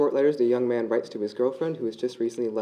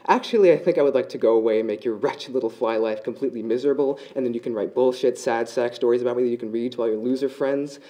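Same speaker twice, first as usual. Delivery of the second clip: louder, bitter spider taunting the fly; spiteful taunt; 5 dB louder than usual. Acted. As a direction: spit the taunt out louder and meaner.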